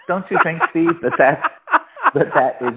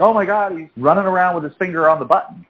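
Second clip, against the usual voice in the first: mock alarm, pitched up; higher, hurried mock panic; going bonkers; 5 semitones higher, faster than usual. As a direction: imitate critics in a tizzy. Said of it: "they just go bonkers".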